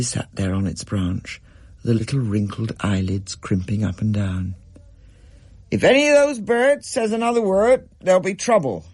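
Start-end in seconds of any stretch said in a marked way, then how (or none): 5.7-8.9 loud, high warning; a furious dad laying down the law; threatening father. A narrator's reading. Dad warns Rachel about the birds, loud threat. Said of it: "said Dad".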